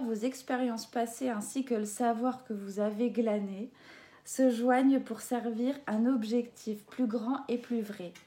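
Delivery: ordinary talk, nothing marked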